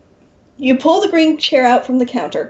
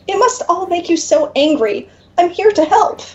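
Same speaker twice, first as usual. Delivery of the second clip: warm reassurance; 6 semitones higher than usual. Acted. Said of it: "the demon says warmly".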